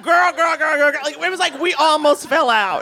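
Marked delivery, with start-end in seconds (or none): 0.0-1.0 put-on excited girl calls. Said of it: "and I was like".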